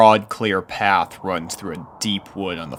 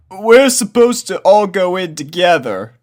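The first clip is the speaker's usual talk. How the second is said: much higher, louder, lazy drawling colt; Snails drawling; 12 semitones higher, 10 dB louder than usual. A narrator's reading. Snails explains.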